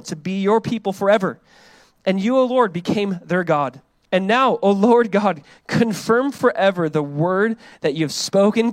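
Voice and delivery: measured, emphatic Bible reading; scripture reading. Acted. Preacher reading David's prayer to the congregation, emphatic. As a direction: proclaim the prayer with deliberate weight.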